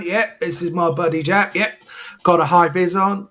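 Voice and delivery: breezy cockney patter of a fake TV repairman; a lightly put-on cockney chancer, cheerful and brazen; cockney con man. Man on the rob bluffing his way in, a hint of cockney patter. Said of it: "you've got the accent for that".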